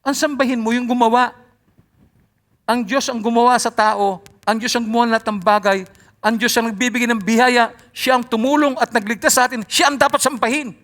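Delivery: fervent preacher's cry that God alone deserves worship; excited preaching. Real, not acted. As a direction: proclaim it loudly, caught up in excitement. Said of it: "lumalakas yung boses ko. Excited lang ako".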